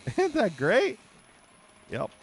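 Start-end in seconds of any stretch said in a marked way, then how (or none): 0.1-1.0 slow, high, drawn-out mock praise with a laugh; laughing sarcasm. Real, not acted. Streamer repeating the jab at the game, slow laughing sarcasm. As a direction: stretch it out, laughing at the absurdity.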